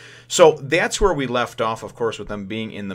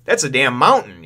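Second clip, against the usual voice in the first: higher, louder shocked exclaim; mock disbelief; 4 semitones higher, 8 dB louder than usual. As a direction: gasp at the size. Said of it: "Usopp's like".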